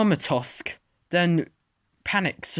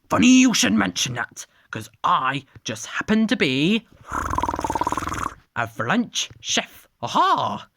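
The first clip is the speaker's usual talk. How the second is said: put-on a light French accent, showy; French chef voice; 3 semitones higher than usual. French dinosaur revealing he is a chef, light French accent. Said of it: "the French Daspletosaurus".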